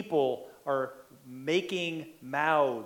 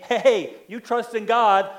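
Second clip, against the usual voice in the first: sarcastic taunt; 4 dB louder than usual. Acted. Enemies sarcastically mocking David's trust in God, loud sneer. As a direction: jeer at him with fake concern. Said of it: "David's enemies are sarcastically saying".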